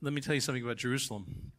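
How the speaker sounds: fast confiding whisper. Acted. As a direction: lean in and whisper it.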